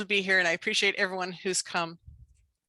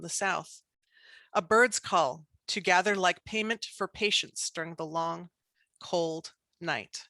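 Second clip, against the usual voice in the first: measured poem recital with pauses between phrases; poetry reading. Acted. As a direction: read it as a poem, line by line. Reads her poem aloud.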